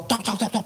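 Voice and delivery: quick, high tok-tok knocks; imitated knocking. Storyteller voicing the pastor's sudden arrival, imitated knocking. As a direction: mimic sudden knocks on a door.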